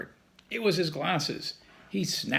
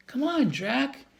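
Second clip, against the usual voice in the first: shouting; 10 semitones higher than usual. A narrator's reading. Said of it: "Annie shouted".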